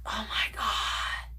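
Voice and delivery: slow awed whisper; hushed, slow, amazed. Real, not acted. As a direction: breathe it out slowly. Awe at makeup.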